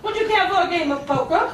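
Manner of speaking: lightly voiced card shark; a hint of a chummy shark character; talking shark. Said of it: "one of those sharks popped his head over my door and said".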